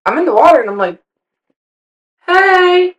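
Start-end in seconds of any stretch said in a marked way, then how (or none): 2.2-2.9 sudden high yelp of surprise; startled hey. Retold or imitated. Touched from behind in the lake, a startled yelp. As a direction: jump at the touch with a quick "Hey.".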